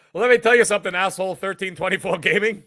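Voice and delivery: mock tough. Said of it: "I dropped character for a second".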